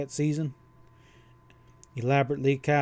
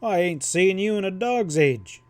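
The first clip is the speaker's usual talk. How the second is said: grinning; 6 semitones higher, 4 dB louder than usual. A narrator's reading. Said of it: "Pat grinned".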